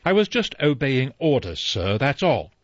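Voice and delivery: sincere, pleading butler; mean every word; earnest. Acted. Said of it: "He said earnestly".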